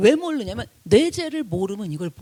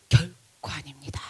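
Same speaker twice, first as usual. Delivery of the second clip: low, slow, hushed answer; humble denial; 8 semitones lower, 4 dB quieter than usual. Acted. Preacher voicing Paul's answer about being better, humble denial. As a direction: draw it out softly and humbly.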